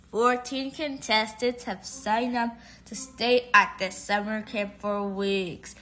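slow flat robot voice. Acted. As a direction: read it like a robot. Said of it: "You sound like a robot".

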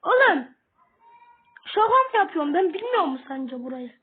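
loud exasperated outburst; frustrated yell. Real, not acted. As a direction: shout it out, annoyed. Yelling at the game.

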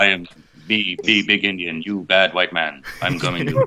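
lightly mocked Hollywood Tonto voice; a slight, mocking take on broken movie-Indian talk; Tonto speak. Shown as a demonstration. Actor lightly mocking the Hollywood Tonto stereotype. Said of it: "Tonto speaks more like this".

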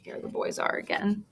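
lively read-aloud storytelling; story narration. A narrator's reading. Teacher reading a picture book to her class, lively.

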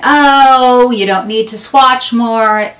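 mock scold, lightly played; mild self-scolding. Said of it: "I was sort of scolding myself".

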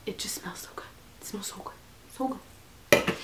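hushed, savoring whisper. Real, not acted. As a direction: whisper it dreamily.

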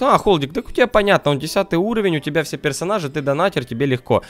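mock objecting viewer. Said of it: "потому что скажут".

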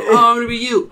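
high, loud retort; mock playful comeback. Him answering in the swapped blazer, playful.

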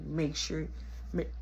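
low, soft halting attempts to speak; out of breath. Choked kid answering mama, breathless halting voice. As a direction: break off as breath runs out. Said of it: "still trying to catch my breath".

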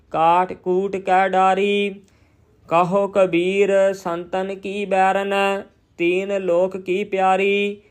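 slow, measured chant-like reading on a level tone; scripture recitation. Shown as a demonstration. Teacher reciting Gurbani for learners, slow measured recitation. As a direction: recite each phrase deliberately, drawing out the vowels.

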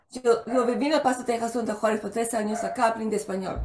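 fluent Spanish with native Spanish sounds; showing off Spanish. Shown as a demonstration. Guest shows off her Spanish to the host, fluent and proud. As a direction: rattle off the Spanish proudly, like a local. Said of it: "I always have to show off a little Spanish".

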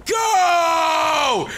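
high, loud strained yell as if on the toilet; mad straining shout. Acted. Gamer mock-yells at his own shot like he's straining on the toilet, loud and high. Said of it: "That's what I sound like when I'm pooping and I'm mad".

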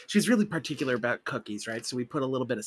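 unvoiced confiding whisper. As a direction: whisper it like a secret. Confiding aside to clerk.

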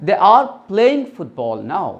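very slow, word by word; teacher spelling out an example slowly; slow dictation. Shown as a demonstration. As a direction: read it out for the class to follow. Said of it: "slow example sentence read out".

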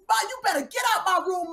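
high-pitched acted daughter's outburst; whitewashed teen version. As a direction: play a toned-down bratty teen telling mom off. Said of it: "we get the whitewashed version".

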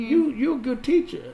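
high, emphatic praise. Acted. Husband praising his wife's teaching, high and emphatic. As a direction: insist she is a good teacher.

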